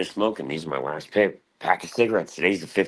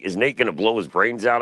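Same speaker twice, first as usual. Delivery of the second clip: quoted viewer; 6 semitones higher, 4 dB louder than usual. Retold or imitated. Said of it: "Be like".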